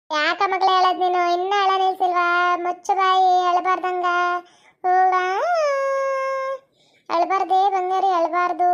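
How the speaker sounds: calm the little one down gently; soothing a baby. Acted. (ಅಳುವ ಮಗುವನ್ನು ಸಮಾಧಾನಿಸುವ ಮೃದು ಧ್ವನಿ)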